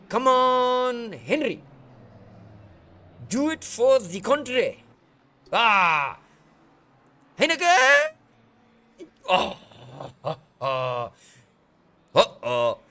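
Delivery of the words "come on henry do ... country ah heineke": loud, higher cheering; shouting the name in excitement; excited cheering. Real, not acted. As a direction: roar the driver on. Cheering driver on.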